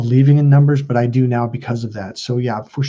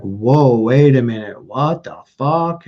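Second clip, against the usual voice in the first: slow, drawn-out shock, louder at first; stunned disbelief; 4 dB louder, slower than usual. Retold or imitated. Man retelling his awakening to the truth, stunned. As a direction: draw it out, reeling.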